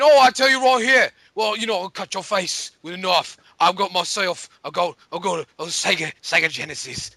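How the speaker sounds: bad mock Cockney accent; a clumsy fake Cockney threat. Mocking console kids in a Cockney accent. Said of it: "with a Cockney British accent real quick".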